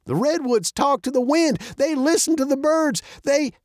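put-on high, indignant old man challenge; as if offended. A narrator's reading. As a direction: fire off affronted questions in a lifted old-man voice. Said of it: "as if offended".

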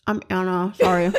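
talking through a mouthful; words round a bite of chocolate; mouth full. Real, not acted. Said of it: "She's got a mouthful of chocolate strawberries".

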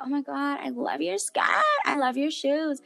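shower a friend with compliments, playfully; mildly hammed-up squeal of admiration; gushing compliments. Imitates herself complimenting girls.

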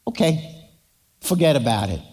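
low, easy New Jersey "forget about it"; New Jersey accent. Acted. King waving off the debt in a New Jersey accent. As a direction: shrug it off like a New Jersey guy. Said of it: "He was from New Jersey".

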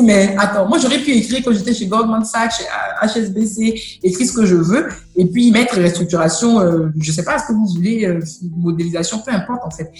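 indignant protest. Retold or imitated.

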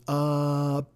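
lightly voiced Eddie Murphy, hammed-up; exaggerated Eddie Murphy. Eddie Murphy trading scene, lightly exaggerated deadpan. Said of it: "he goes".

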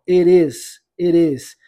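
IT IS run together as one word, T tapped like an R; linked words. Shown as a demonstration. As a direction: join IT IS with a quick flap. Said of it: "E a junção, ó". (IT IS emendado, T com som de R)

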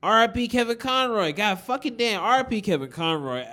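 high, loud mock mourning cry; high exaggerated lament. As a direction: wail it up high in mock grief.

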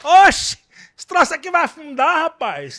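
put-on loud, high Ceará accent. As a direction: belt it out in a cearense accent. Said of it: "Titanic dublado no Ceará".

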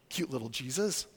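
low, soft, dismissive murmur; quietly mock a sweet little picture; mock cutesy. Mocks felt board picture.

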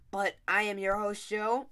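hiccups. Real, not acted. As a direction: voice jolted by a hiccup. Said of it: "I have the hiccups".

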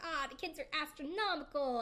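a touch of mock delight; imitated super happy. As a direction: lightly imitate someone delighted. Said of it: "Flavor's super happy".

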